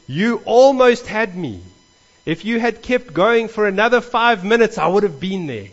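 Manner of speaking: a man confessing he was nearly won; a man after the gospel service, admitting he was nearly convinced; man after sermon. Retold or imitated. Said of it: "a man came up to me afterwards and he said".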